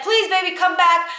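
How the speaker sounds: high, wheedling plea; pleading. Retold or imitated. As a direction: imitate a boss coaxing someone back. Boss begging her to return.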